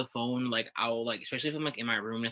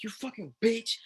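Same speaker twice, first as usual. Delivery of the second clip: retold gamer scream; 10 semitones higher than usual. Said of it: "I was just screaming".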